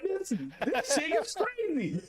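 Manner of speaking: laughing disbelief. Retold or imitated. Reacting to her wild mood swings.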